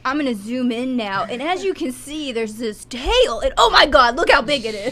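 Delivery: mock nature narrator. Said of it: "like, narrating".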